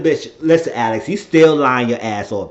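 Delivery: loud sassy scolding. Real, not acted. To Alex on screen, a loud sassy scolding. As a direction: call her out loud and sassy. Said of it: "I said".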